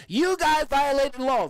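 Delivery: high, slow scolding voice; mock chastising. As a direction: imitate a drawn-out telling-off. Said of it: "a chastising".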